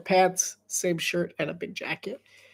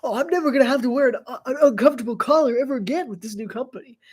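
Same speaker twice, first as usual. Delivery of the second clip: commercial guy; 4 semitones higher, faster than usual. Retold or imitated. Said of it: "this guy's like".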